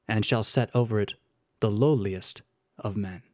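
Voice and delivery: measured reading with long pauses between phrases; solemn scripture reading. A narrator's reading. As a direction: pronounce the decree gravely, letting each phrase settle. Reads the decree solemnly.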